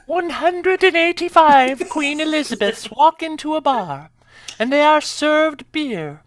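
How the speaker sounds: Queen Elizabeth. Acted. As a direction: deliver it in a put-on British accent, phrase by phrase. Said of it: "has to do it in that accent or more British".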